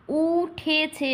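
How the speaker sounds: very slow, evenly separated syllables. Shown as a demonstration. Teacher showing one beat each, slow separated syllables. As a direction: give every syllable its own beat. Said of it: "এক এক করে হচ্ছে".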